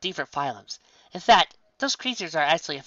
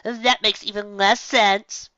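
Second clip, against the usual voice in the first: slow, higher, confused; struggling to make sense of it; slow puzzled creature voice; baffled; 7 semitones higher, 4 dB louder, much slower than usual. Acted. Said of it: "trying to comprehend the idea".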